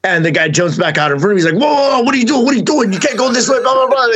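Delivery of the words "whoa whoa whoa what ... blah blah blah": imitating angry attendant. Parking attendant blocks the car, hammed-up high yell. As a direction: play the parking guy freaking out. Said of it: "And, like, gets all crazy".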